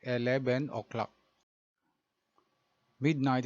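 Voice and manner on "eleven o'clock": "eleven o'clock" with a b sound, "eleben oklak"; Tagalog-accented "eleven o'clock". Shown as a demonstration. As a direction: show the learner the Tagalog way. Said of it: "in Tagalog pronunciation".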